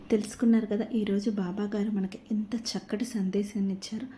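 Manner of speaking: hushed whisper to viewers. Real, not acted. Host whispering the closing remark to the viewers. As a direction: breathe it out as a secret aside.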